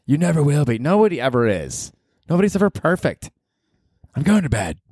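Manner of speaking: high put-on girlfriend dismissive; mock girlfriend. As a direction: brush him off as girlfriend.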